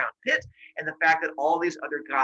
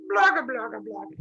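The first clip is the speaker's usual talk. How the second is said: high babble dropping away at the end; monster gibberish; 7 semitones higher, 3 dB louder than usual. Retold or imitated. Monsters answer being told to hide away, fading gibberish. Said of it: "I don't speak monster".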